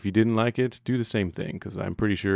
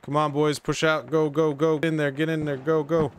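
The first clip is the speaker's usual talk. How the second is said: urgent rallying shout; 8 semitones higher than usual. Real, not acted. Urging squad forward in battle.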